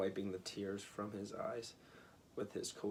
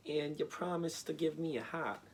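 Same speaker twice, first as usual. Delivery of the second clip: higher, louder plaintive voice; Tin Woodman voice; 7 semitones higher, 4 dB louder than usual. A narrator's reading. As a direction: press the wizard for the promised hat.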